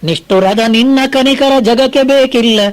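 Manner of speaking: slow, measured verse chanting; poem recitation. Acted. Preacher reciting Mankutimmana Kagga to listeners, slow recitation. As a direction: lay out each line of the verse slowly.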